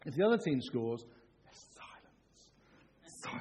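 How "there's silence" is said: very soft, slow, suspenseful hush; hushed silence. Retold or imitated. Preacher describing the house when rivals score, hushed. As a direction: drop to a near whisper.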